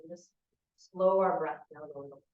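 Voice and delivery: calm, unhurried guidance with long pauses; guided meditation. Real, not acted. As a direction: ease them gently into stillness.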